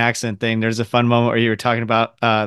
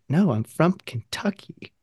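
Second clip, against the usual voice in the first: put-on slow, softer Kentucky accent; 4 semitones higher, 6 dB quieter, slower than usual. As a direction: imitate a kid's thick Kentucky accent, slowly. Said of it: "that's how I sounded until".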